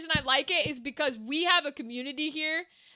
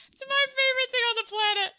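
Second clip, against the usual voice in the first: high sweet lady voice, raised pitch; nice lady voice; 9 semitones higher than usual. Pretend. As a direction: say it as a sugary lady. Lady voice take.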